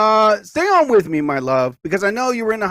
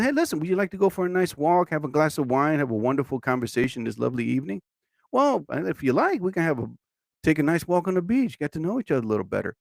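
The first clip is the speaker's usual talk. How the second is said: smooth charmer; 2 semitones lower, 6 dB quieter, faster than usual. Pretend. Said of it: "me, I'll be like".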